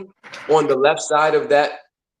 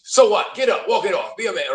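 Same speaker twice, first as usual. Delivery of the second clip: raised, scoffing "toughen up" act; tough-love dismisser; 8 semitones higher than usual. Acted. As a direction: brush off the complaint in a higher mock-stern voice. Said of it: "The other person's like".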